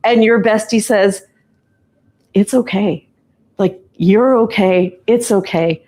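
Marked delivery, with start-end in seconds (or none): 2.3-5.8 kind reassurance. Retold or imitated. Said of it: "in the kindest way possible".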